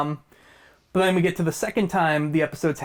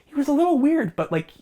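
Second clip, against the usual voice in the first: put-on kid's voice; 5 semitones higher than usual. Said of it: "the kid's like".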